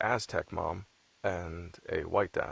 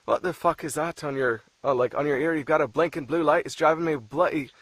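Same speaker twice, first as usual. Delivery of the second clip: imitating an irritated Irish husband, pitched up; mock pissed-off; 5 semitones higher, 4 dB louder than usual. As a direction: put on a worked-up, exasperated rant. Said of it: "he's fucking pissed".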